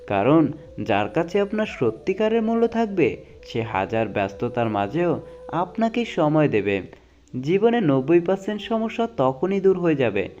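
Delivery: dramatic reading of life quotes; motivational quote recitation. Acted. Reading life advice to viewers, earnest dramatic recitation. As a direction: recite each saying like a moving lesson.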